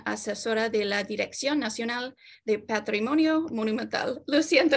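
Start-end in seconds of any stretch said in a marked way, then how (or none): 4.3-4.8 apologizing through a laugh; laughing apology. Real, not acted. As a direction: say sorry with a laugh. Apologizes for stumbling over names.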